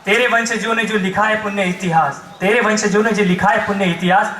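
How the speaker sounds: solemn declaimed plea in measured verse; poem recitation. Acted. Mother asks her soldier son for a promise, declaimed. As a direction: recite it as a rhythmic appeal.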